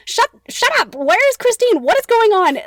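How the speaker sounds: loud, high exasperated mock yell; so over it. The Persian cutting off Eric's dramatics, exasperated. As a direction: cut him off, totally fed up. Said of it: "so freaking over it".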